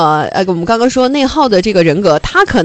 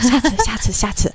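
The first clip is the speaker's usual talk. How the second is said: softly lowered voice; hushed demo; 3 semitones higher, 6 dB quieter than usual. Shown as a demonstration. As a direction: keep it small and quiet, for elevator talk. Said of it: "就是小点声".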